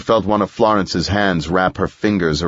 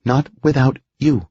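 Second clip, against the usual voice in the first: firm woman; 6 semitones higher than usual. A narrator's reading. Edith refuses to leave.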